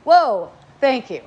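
loud, slowed whoa then thanks; mock surprised thanks. Thanking her son for the insult, slow mock surprise. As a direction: take the hit and thank him. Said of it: "that's a good reaction to get".

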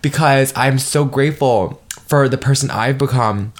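choked up with gratitude; real swell of emotion; emotional. Real, not acted. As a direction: voice lifting, moved. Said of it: "I'm getting so emotional".

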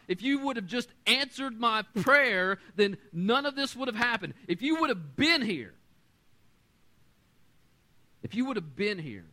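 rising, pleading lament to God; desperate prayer. Retold or imitated. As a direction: build from tired pleading to anguished high appeal. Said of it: "You ever said that to God".

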